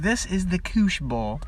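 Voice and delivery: slow, rough imitation of a British or Australian accent. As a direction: attempt a British-Australian ad voice, drawn out. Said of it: "British or Australian accent when he was like".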